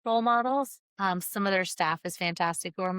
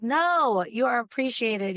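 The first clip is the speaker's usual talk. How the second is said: higher and louder, firmly insisting; won't take no for an answer; insistent reassurance; 5 semitones higher, 4 dB louder, slower than usual. Retold or imitated. To modest teachers, insisting warmly they are appreciated.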